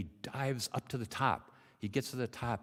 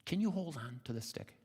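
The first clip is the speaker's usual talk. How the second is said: higher-pitched gentle question; mother swallow; 5 semitones higher than usual. Acted. Mother swallow asks the frog to hold on, higher voice. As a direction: ask in a lifted bird-mother voice. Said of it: "the mother swallow says".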